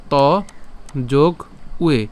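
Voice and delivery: "ত যোগ উয়ে" with a pause between each part; split into parts. Shown as a demonstration. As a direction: separate "ত" from "উয়ে". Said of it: "এটাকে ভাঙলে আমরা কী পাই".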